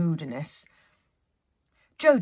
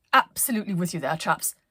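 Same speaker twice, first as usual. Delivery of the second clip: fast, louder jolly agreement; brisk agreement; 4 dB louder than usual. Acted. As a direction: rattle it off heartily.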